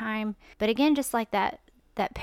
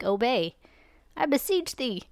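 God pleading; 3 semitones higher than usual. Acted. God begging his people to obey, pleading. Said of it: "God's telling you, like".

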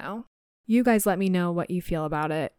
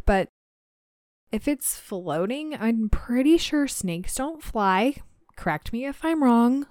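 sarcastic; 3 semitones higher than usual. Real, not acted. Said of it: "I'm being sarcastic".

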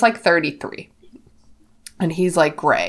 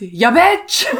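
sassier delivery; 3 semitones higher than usual. Shown as a demonstration. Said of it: "I really prefer the delivery of that as".

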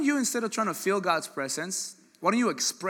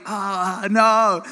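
mock refusal; 4 semitones higher, 9 dB louder than usual. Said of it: "Some of you guys are like".

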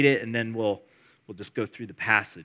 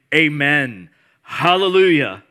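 slow, loud drawn-out amen hallelujah; worshipful amen; 3 semitones higher, 10 dB louder, slower than usual. Acted. Elders worshiping before the throne, loud and drawn out. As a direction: lift it up in worship. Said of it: "fell down and worshiped God saying".

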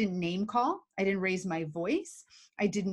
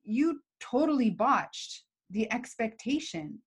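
calm firm demo. Shown as a demonstration. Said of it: "I have to say".

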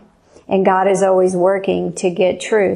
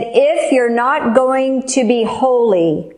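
slow, higher and solemn, like God's judgement; stern God's warning; 4 semitones higher, slower than usual. Retold or imitated. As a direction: deliver it slowly as a grave divine warning. God warning her in hell.

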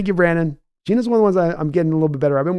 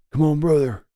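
Hulk Hogan voice. Acted. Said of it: "I do a bad Hulk Hogan".

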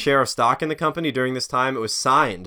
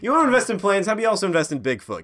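mocking boss, higher and fast; gravelly old tycoon; 7 semitones higher, faster than usual. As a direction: scoff and throw them out. Tycoon mocking plane investor.

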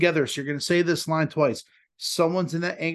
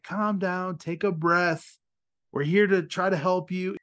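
slow, measured calming voice; retold de-escalation; 2 semitones higher, slower than usual. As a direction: gently talk someone down, taking your time. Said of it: "I was trying to de-escalate him".

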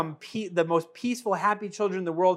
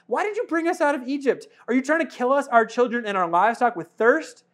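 complaining crowd; 5 semitones higher than usual. Acted. Complaining people voiced.

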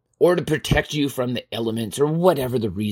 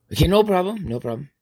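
breezy agreement; 5 semitones higher, faster than usual. Acted. Helper takes the coloring request, breezily agreeing. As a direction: agree readily, starting high and tailing off.

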